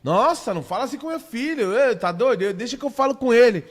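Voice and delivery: lightly hammed-up outrage at a relative; mock offended mother. Imitating a mother scolding a relative for scolding her son, mock indignant.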